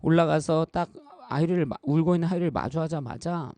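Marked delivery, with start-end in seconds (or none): none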